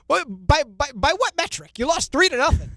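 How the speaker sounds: high-pitched, disbelieving retort; incredulous scoff. Retold or imitated. Answering the losing coach's claim of being better, incredulous scoff. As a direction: challenge an absurd excuse in disbelief.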